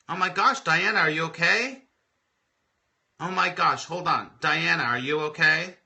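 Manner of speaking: suddenly alarmed for a viewer; checking anxiously on Diana mid-story; real alarm. Real, not acted. Viewer in distress live.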